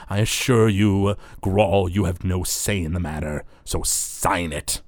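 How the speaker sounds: measured, firm character order; slow at the start and on the final demand; Zalaman the Wretched. Acted. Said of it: "gives a dirty look to Zalaman".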